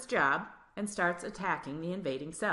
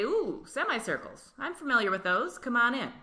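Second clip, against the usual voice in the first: cheerful blood cell; 5 semitones higher, 3 dB louder than usual. Acted. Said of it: "and they say".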